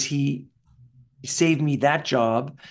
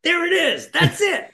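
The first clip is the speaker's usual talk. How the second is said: high, pleased cry of success; delighted coach; 4 dB louder than usual. Retold or imitated. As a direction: coach cheering the breakthrough.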